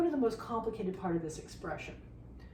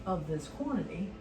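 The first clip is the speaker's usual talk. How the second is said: louder, pushing over the noise; yelling over leaf blower; 4 dB louder than usual. Real, not acted. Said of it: "Really apologize about the leaf blower".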